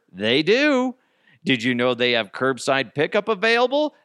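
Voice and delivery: upbeat sponsor pitch; quick, bright host-read ad. Acted. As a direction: sell it like a radio spot. Reads sponsor ad.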